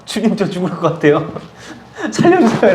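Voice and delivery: high, laughing mock cry for help; mock panicked plea. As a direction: ham up a terrified plea, breaking into a laugh. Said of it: "하나님 앞에 막 회개가 나와요". (웃음 섞인 과장된 살려달라는 외침)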